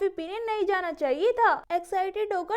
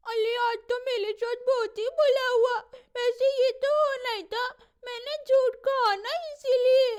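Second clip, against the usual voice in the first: crying. Acted. Girl sent out of class, crying.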